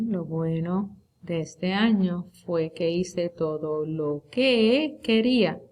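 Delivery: slow, deliberate reread with weight on "que"; slow example reading. Shown as a demonstration. Teacher rereads the example so students notice "que", slow and deliberate. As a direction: spell the sentence out slowly so students catch "que". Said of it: "La segunda vez se usa que".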